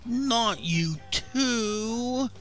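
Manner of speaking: high, drawn-out whine; long, high-pitched whiny complaint; whining. A narrator's reading. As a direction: whine it in dismay, stretching each word. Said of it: "Eugene whined".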